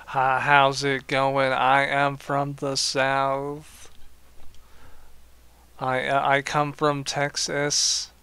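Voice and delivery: slow, hammed-up Southern US accent; mock southern accent. Streamer mocking a game character's bad Southern US accent, slow. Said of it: "your southern accent is terrible".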